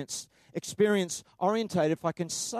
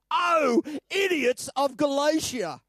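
frustrated outburst; 7 semitones higher, slower than usual. Acted. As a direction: bellow it like an exasperated apostle. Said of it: "captures Paul's frustration".

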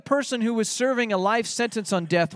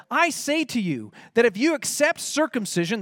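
firm, insistent quoted warning; mildly emphatic quotation; 2 semitones higher than usual. Retold or imitated. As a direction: lean on the words as a preacher quoting an apostle. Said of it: "he's being so emphatic".

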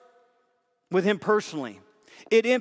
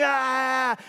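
mock cheering scream; 5 semitones higher than usual. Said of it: "cheering and screaming".

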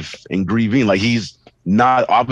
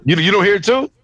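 lightly acted lunatic, higher pitched; casual lunatic; 7 semitones higher than usual. Imagined lunatic asking others about a voice, casually unhinged, higher. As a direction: play someone casually puzzled that others can't hear it. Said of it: "also being a fucking lunatic".

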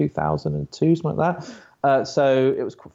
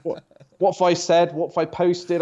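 higher-pitched puzzled questioning; mock bewilderment; 6 semitones higher than usual. Podcast guest retelling his reaction to fifty pottery gifs, bewildered. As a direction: replay a mildly alarmed reaction.

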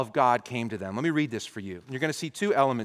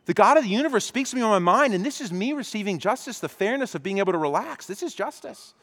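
smug self-justification; 3 semitones higher than usual. Acted. Country club friend defends himself.

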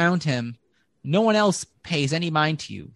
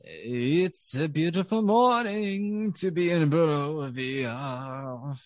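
slow, sing-song halfling greeting; frolicking voice; slower than usual. Acted. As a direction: greet the morning like a cheerful halfling. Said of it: "a frolicking voice".

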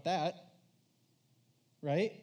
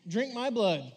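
creepy demand; 6 semitones higher, 7 dB louder, slower than usual. Pretend. Said as shocking street line.

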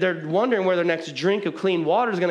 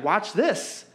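higher, slow, earnest voice of David; voicing David; 6 semitones higher, slower than usual. David speaking to himself in a higher, earnest voice. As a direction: say it like David turning his own heart around. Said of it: "and he's like".

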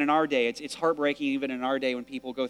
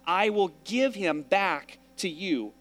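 Hannah's vow, paraphrased; 3 semitones higher than usual. Retold or imitated. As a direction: bargain with God earnestly, a bit playful. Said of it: "She's saying".

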